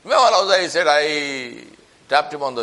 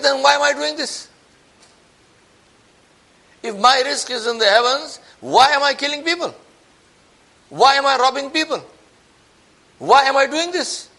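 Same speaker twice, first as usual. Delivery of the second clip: raised, anguished questioning as the guilty bandit; shaken bandit, pleading; 7 semitones higher than usual. Retold or imitated. Bandit asks himself why he robs, raised and pained. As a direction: keep asking why, each one pained.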